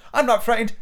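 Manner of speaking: put-on high-pitched boy protesting; defiant child. Son denies being scared, defiant.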